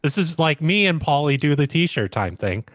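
high, eager mock Vinny voice; imitating Vinny. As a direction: butt in like a cocky reality star. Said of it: "Vinny's chiming in on this".

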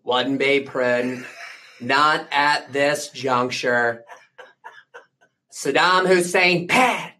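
slow, halting Dana Carvey style Bush; a light George Bush Senior voice; George Bush Senior impression. Bush Senior giving slow verdicts, lightly voiced. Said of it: "I can do George, the George Bush Senior".

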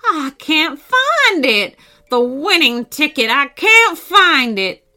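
slow, high, drawn-out dismay; rising panic. A narrator's reading. Grandpa searching pockets for winning ticket, panicked. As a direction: cry out in panic, stretching the words.

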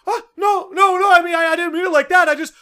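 high, fast flustered denial; high panicky roommate talking fast; backpedalling roommate. Retold or imitated. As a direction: scramble to explain.

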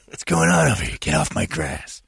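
a mock grouchy elder chasing kids off the grass; grumpy old man. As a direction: shoo the trespassers off like a crotchety old chief. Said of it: "Chief Kowalski?".

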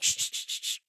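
unvoiced hushing, quick and repeated; whispered shh to cut her off; shushing whisper. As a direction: hush her under your breath. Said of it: "And I was like".

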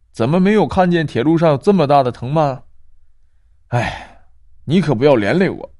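put-on grumbling old woman, mildly cross; somewhat annoyed. Old woman scolding the trapped girl, mildly annoyed. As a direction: scold her for the trouble. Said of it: "婆婆有些生气地说".

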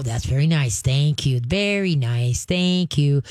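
calmly reward the quiet dog with your voice; soft praise. Shown as a demonstration. Trainer showing owner how to praise the dog, calm and gentle. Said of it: "you're gonna go very nice".

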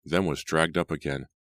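ordinary delivery, nothing marked

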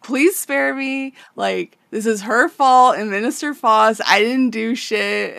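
put-on old man in the burning tower begs Griffith to spare him, pleading; begging for mercy. Beg for your life, a little hammed-up. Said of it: "and he's like".

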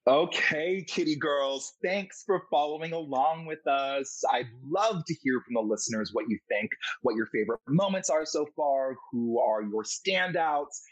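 lilting, animated outro read; podcast host sign-off. Acted. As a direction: send the listeners off with deliberate, showy emphasis. Host reads the show's outro.

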